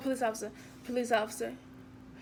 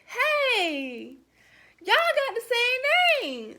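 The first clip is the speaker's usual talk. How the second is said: mock clueless guy; 8 semitones higher, 7 dB louder, much slower than usual. Date's clueless remark.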